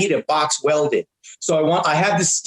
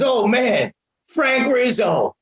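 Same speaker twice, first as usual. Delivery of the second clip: slow, lightly voiced tough guy recognizing Frank; drawn-out mock tough guy name-drop; a hint of a tough guy; 5 semitones higher, much slower than usual. Caller recognizes Frank Rizzo, lightly tough guy voice. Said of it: "a tough guy voice".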